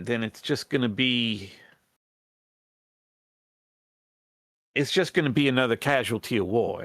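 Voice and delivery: lightly voiced rat plotter in folksy dialect; folksy character voice, halting appeal; earnest rebel rat leader. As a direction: hesitantly plead for the tribe's support. Rebel leader argues against killing.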